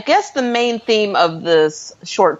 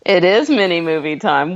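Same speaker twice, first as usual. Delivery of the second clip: ordinary talk, nothing marked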